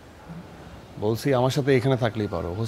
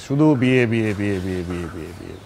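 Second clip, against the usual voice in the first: fed-up repetition; 7 semitones lower than usual. Acted. Fed up with marriage talk.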